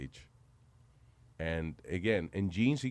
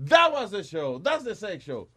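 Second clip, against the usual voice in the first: dancer's reply; 9 semitones higher, 8 dB louder, slower than usual. Retold or imitated. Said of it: "y me dice".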